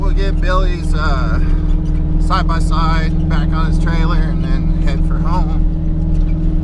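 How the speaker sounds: talking while bouncing over bumps; on a bumpy road. Real, not acted. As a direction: voice jolted by bumps. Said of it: "sorry, it's really bumpy".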